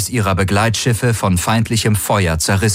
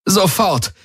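calling out with a shaking voice, higher; trembling call; 12 semitones higher than usual. Acted. Ylana calling into her comm for a healer, voice trembling. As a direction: shout for help while shaken. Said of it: "rief sie mit zitternder Stimme".

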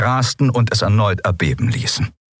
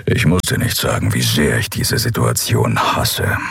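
low gruff companion; 7 semitones lower than usual. Acted. Keru telling Endriel he hates this, lower voice. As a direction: growl it low and heavy.

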